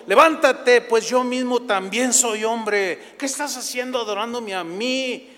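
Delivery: high, drawn-out protest, loud at the start; acted rebuke. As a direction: call out in protest to someone kneeling before you. Pedro rebukes kneeling Cornelio. (reproche en voz alta y aguda, alargado)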